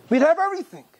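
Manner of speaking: usual speaking voice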